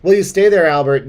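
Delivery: loud, high Muppet character voice; a cartoonish puppet asking a question; Muppet-style voice. Muppet-like voice asking a friend about the hotel. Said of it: "like a Muppets character".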